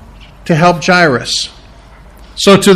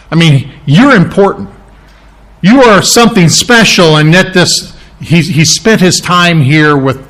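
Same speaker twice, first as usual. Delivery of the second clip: sarcastic messenger. Retold or imitated. Preacher voicing the messenger's sarcastic brush-off to Jairus, mildly mocking. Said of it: "I half wonder whether that wasn't sarcastic".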